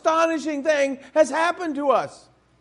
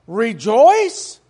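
louder, disbelieving rising "Rejoice?"; incredulous question; 6 dB louder than usual. Retold or imitated. Preacher voicing the world's disbelief at rejoicing, incredulous. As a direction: ask "Rejoice?" as if it were absurd.

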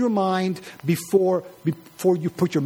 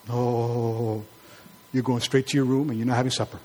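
lower, quick scolding mom; a touch of a parent laying down punishment; mock stern mother; 7 semitones lower than usual. Mother scolding her child for comparing her.

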